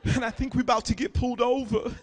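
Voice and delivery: lightly voiced laid-back rapper; a famous rapper. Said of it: "best GPS voice would be a rapper".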